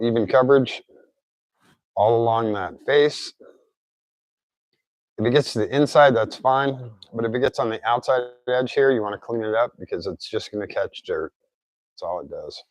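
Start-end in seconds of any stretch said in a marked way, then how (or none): 5.2-12.6 speech a bit off after oral surgery; tongue still adjusting after mouth surgery; post-surgery mouth. Real, not acted. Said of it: "I apologize if I'm talking a little weird".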